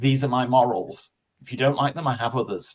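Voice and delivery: ordinary talk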